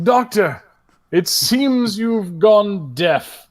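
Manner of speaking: slow, stuffy orc aside; lightly voiced haughty orc; pompous orc. Orc teasing the doctor, slow and stuffy. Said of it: "the orc is like".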